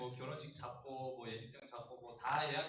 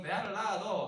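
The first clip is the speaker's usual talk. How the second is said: quicker Gyeongsang dialect line; 4 semitones higher, 8 dB louder, slower than usual. Retold or imitated. Pastor repeating the Gyeongsang proposal line in dialect. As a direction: toss off the Gyeongsang phrase again. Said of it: "경상도에서는".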